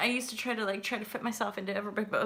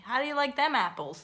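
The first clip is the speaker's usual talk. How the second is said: lightly put-on Boston accent, higher; 5 semitones higher than usual. Shown as a demonstration. Trying out what a Boston accent sounds like, Boston accent. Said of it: "What's the Boston?".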